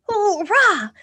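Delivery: cheerful high shout. Shown as a demonstration. Kids' song cheer, happy shout. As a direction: cheer it out loud. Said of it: "Give a shout".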